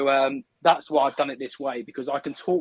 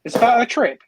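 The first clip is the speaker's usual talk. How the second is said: surprised question; 9 semitones higher, 8 dB louder than usual. Real, not acted. Surprised echo of friend's news.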